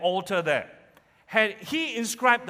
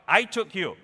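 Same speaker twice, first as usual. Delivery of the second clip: voice of God; 4 semitones higher than usual. Acted. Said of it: "as God".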